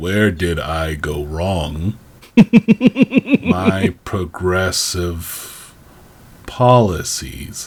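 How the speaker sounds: put-on very low, very slow, drawn-out, emotionless voice. Imitating the warden's lines: imitating a flat, emotionless delivery. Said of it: "with zero emotion or inflections".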